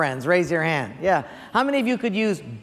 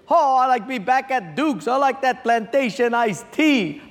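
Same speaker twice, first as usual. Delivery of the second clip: lightly put-on Hawaiian local accent, a bit higher; 4 semitones higher than usual. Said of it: "turns to the Hawaiian guy".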